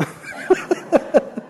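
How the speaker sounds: high wheezy laughter. Real, not acted. Preacher amused at how it came out, laughing. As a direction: laugh at your own slip. Laughs at his own slip.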